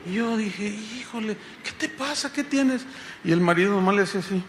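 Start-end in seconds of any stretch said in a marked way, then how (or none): 0.7-2.9 hushed, raised-pitch worried question; soft concern. Retold or imitated. Pastor asks the crying woman what is wrong, soft concern. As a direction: ask gently what is wrong. Retells asking the crying guest.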